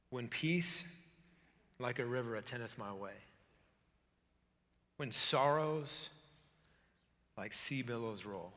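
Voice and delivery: soft, measured reading with long pauses; solemn hymn recitation. Acted. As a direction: let each phrase sink and fade low. Recites hymn lyrics slowly.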